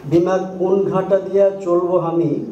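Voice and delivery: reciting a Shershabadia poem line; poem in Shershabadia dialect; Shershabadia poem recitation. Shown as a demonstration. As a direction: read the verse in Shershabadia dialect, gently. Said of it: "তার কয়েকটা line".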